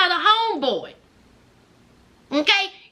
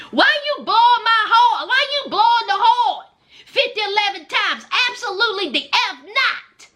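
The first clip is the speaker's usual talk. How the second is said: higher-pitched, indignant challenge; indignant scolding; 5 semitones higher than usual. Pretend. Homeowner to a stranger honking in the driveway, indignant. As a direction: fire off outraged questions at a honker.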